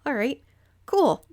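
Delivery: delighted surprise, voice jumping up; mock-stunned all right, cool; surprised agreement. Surprised acceptance retold.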